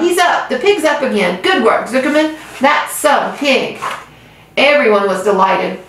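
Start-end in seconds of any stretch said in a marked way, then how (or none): 0.0-3.8 cheering crowd. Acted.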